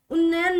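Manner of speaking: उन्नयन said as a wrong option; rejected pronunciation. Shown as a demonstration. Teacher rejects a third option, wrong-variant उन्नयन. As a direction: hold up उन्नयन briskly to dismiss it. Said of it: "उन्नयन नहीं".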